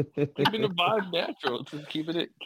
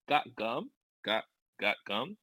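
questioning; 4 semitones lower, slower than usual. Shown as a demonstration. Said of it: "it sounds like a question".

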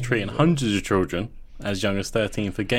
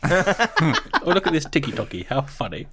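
grumbling out of touch boomer; 7 semitones higher than usual. Pretend. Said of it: "Addison's boomer voice".

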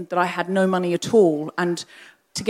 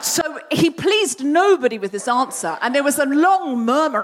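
amused laughing delivery; 5 semitones higher, 3 dB louder than usual. Real, not acted. Comic punchline.

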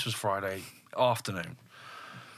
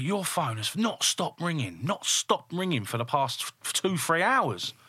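retold complaint, drawn out and higher; exasperated; 6 semitones higher, slower than usual. Wife waking husband over his ringing phone, exasperated. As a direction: stretch the words in weary annoyance. Annoyed wife voiced in story.

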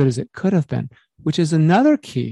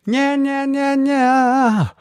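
high nasal nya sounds, much higher; nasal country twang demo; 11 semitones higher, much slower than usual. Shown as a demonstration. Coach demoing bright country nasal tone. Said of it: "more country singers".

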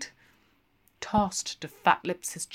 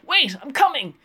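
calling after; 8 semitones higher, 7 dB louder, faster than usual. A narrator's reading. Hurrying after.

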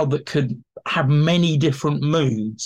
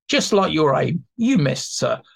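clown heckling back; 2 semitones higher than usual. Shown as a demonstration. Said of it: "this is direct address to an audience".

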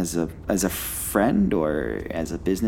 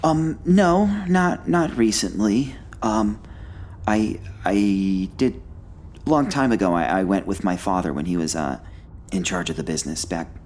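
a flustered, polite collector; bright squeaky sing-song welcome. Acted. Same character voice.

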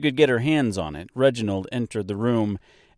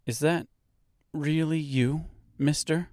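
disbelief; 6 semitones higher than usual. A narrator's reading. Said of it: "Dorothy asked in disbelief".

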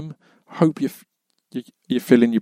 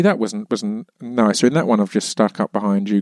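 ordinary delivery

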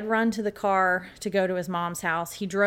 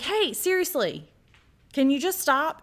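exasperated, raised-pitch mock yell; retold yell; 8 semitones higher, 5 dB louder than usual. Dad calls upstairs to noisy kids, exasperated retold yell. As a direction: call up sharply, louder and higher. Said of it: "he yells".

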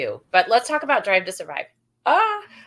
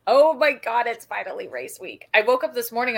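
ordinary delivery

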